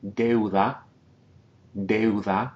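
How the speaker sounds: Deuda with eu in one glide; one syllable. Shown as a demonstration. Teacher models Deuda, eu in one syllable. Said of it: "single syllable".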